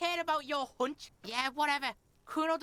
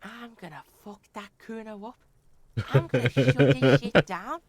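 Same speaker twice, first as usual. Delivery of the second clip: lower, louder mock tough guy; lightly voiced threat; 8 semitones lower, 10 dB louder than usual. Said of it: "I know what you were thinking".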